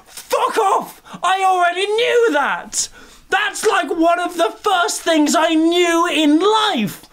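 high, shouted rant; mock outrage. Ranting at the movie, high and shouting. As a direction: yell it in comic fury.

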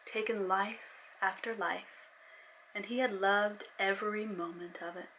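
steady storyteller reading; story narration. A narrator's reading. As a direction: read it like an audiobook. Reads her novel aloud.

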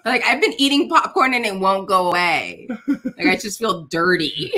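grossed out through laughter; laughing complaint. Real, not acted. Novice tells hosts the taste lingers, laughing disgust. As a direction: complain while laughing helplessly.

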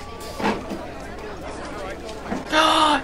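long, drawn-in gasp. Real, not acted. Viewer shocked at the film, gasping. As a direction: suck in air in disbelief.

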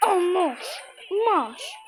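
cheeky boss taunt; gloating taunt. Real, not acted. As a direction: rub the win in with each hit.

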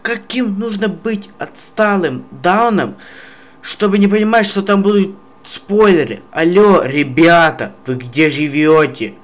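high, fast, rising angry rant; raging gamer. Real, not acted. Building rant at commenters.

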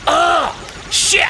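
high mock cry of pain; retold pained yelp. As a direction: yelp as if just bitten. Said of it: "He, like, bites him".

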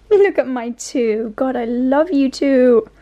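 slow, affectionate pet talk; doting. Real, not acted. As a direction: draw it out, adoring your pets. Doting on the dogs.

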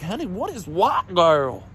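put-on sweet old lady voice. Old woman asking innocently.

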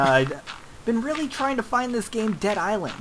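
polite white-guy voice. Pretend. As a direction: ask sweetly like a nice customer. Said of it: "I got a white boy voice".

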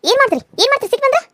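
high, loud defiant shout; defiant challenge. Acted. Wife dares her angry husband, high defiant shout. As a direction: dare him to do his worst, voice climbing high.

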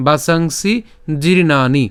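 বাসাংসি জীর্ণানি with long "saang", "jeer", "naa"; teacher modelling বাসাংসি জীর্ণানি; Sanskrit pronunciation demo. Shown as a demonstration. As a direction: recite বাসাংসি জীর্ণানি in careful measured syllables. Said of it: "একসাথে উচ্চারণ করি".

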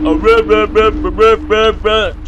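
high loud repeated yelps; panicked shriek. Real, not acted. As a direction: panic at the sudden scare. Scared by witch.

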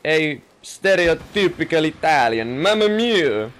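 high, hammed-up Italian accent; over-the-top Italian exclaiming; stereotypical Italian. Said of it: "I suddenly am Italian. A stereotypical Italian".

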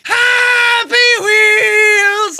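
long, loud stretched bellow; big bombastic yell. Shown as a demonstration. A YouTuber tricks fans, then yells the intro loud. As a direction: blast the show name out slowly.

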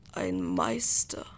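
slow, whispered revelation; hushed and weighty, drawn out; hushed answer. A narrator's reading. Merten's answer after a silence.

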